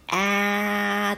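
あー held as a vowel midway between Japanese a and e; A sound between a and e. Shown as a demonstration. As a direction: stretch あー so both a and e are heard in it. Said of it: "あと、えの中間の音".

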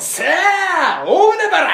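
loud high barker shout; bright loud shop call. Retold or imitated. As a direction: bellow it like a crazed clerk. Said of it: "つって".

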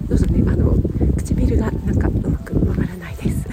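lips too cold to move; cold-stiff lips slurring words; numb lips from cold. Real, not acted.

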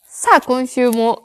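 a hint of a radio host, slow and drawn out; radio host intro. Imitating the radio show's opening, slow and drawn out. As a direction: lightly mimic a show's opening line. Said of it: "みたいなんでさ".

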